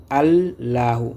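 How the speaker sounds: "Allahu" read slowly with the L held; word reading demo. Shown as a demonstration. Teacher shows learners how to read the word, slow "Allahu" with held L. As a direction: stretch the doubled L in "Allahu". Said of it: "c'est comme ça qu'il faut lire le mot".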